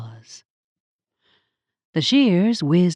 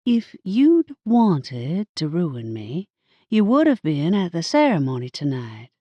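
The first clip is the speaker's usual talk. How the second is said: deliberate. Acted. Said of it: "I slowly started as if I'd really been thinking".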